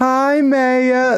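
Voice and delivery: very high, put-on cartoon-style voice. Retelling saying a line at a merch table in Linda's voice: imitating Linda from Bob's Burgers. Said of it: "What is this voice you're doing?".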